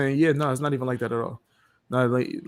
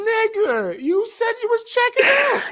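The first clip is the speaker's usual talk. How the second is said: laughing incredulous. Retold or imitated. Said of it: "I'm like".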